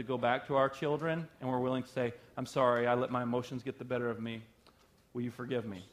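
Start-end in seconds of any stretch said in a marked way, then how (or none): 2.4-5.8 mildly contrite, lower and softening; gentle apology. Acted. Parent asking the children's forgiveness after losing it, gently apologetic. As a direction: let the apology settle down low and quiet toward the end.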